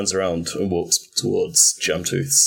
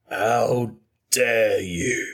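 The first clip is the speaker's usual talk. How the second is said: cold fury; 3 semitones higher, much slower than usual. Acted. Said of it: "all trace of his, like, happy-go-lucky, upper-class British accent have gone".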